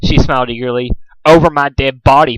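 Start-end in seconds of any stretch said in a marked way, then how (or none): 1.2-2.4 proclaimed. Acted. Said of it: "proclaimed Pinkie Pie".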